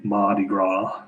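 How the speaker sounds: slow "Mardi Gras" in a Louisiana accent; Louisiana pronunciation. Shown as a demonstration. Irishman showing the cool accent, slow "Mardi Gras" in Louisiana style. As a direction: say "Mardi Gras" slowly, like a local. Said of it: "It's a really cool accent".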